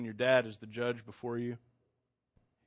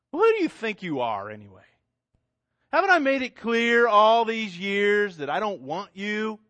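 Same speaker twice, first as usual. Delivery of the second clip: raised, higher, louder brush-off; scornful retort; 7 semitones higher, 6 dB louder than usual. Acted. Girlfriend brushing off Chris, raised scornful voice. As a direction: push him away with contempt.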